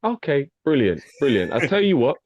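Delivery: polite customer-service voice, a touch formal; work voice. Shown as a demonstration. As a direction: put on the office manner for a customer. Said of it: "That's how I talk. I put my work voice on".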